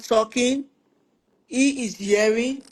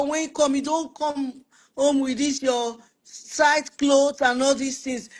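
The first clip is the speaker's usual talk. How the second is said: soothing wife; 3 semitones higher than usual. Retold or imitated. Wife soothing tense husband.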